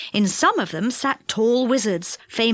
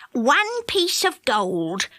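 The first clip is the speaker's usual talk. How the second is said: slow witch voice; 3 semitones higher, much slower than usual. Acted. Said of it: "said the witch".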